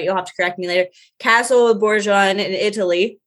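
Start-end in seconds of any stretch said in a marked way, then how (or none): 1.2-3.2 "Borgione" said the American way, as a guess; Italian name "Borgione" read with American sounds; American pronunciation. Real, not acted. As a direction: attempt "Borgione" as an unsure American would. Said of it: "That's how I would pronounce that".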